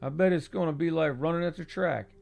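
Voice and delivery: lightly voiced eager young man; young friend. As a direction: voice the excited young buddy. Franklin coaching.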